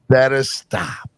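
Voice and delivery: slow, drawn-out playful warning; slow mock warning. Real, not acted. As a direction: drag it out like a mock threat.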